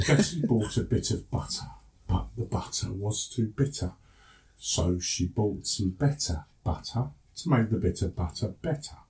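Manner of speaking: slow, careful international English accent; an international English accent, measured and easy to follow. Shown as a demonstration. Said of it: "speak to you now in my international voice".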